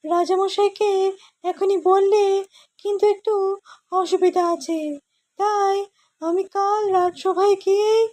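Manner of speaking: high cartoon scientist voice; a high-pitched, fussy old inventor; Gopal's scientist voice. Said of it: "গোপালের বৈজ্ঞানিকের ভয়েসটা করব".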